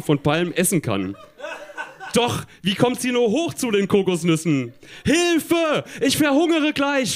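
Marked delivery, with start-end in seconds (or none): 5.0-7.1 high-pitched storybook cry for help. A narrator's reading. Tina is starving under the palms, crying out. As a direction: wail it high, in mock desperation. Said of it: "schreit sie".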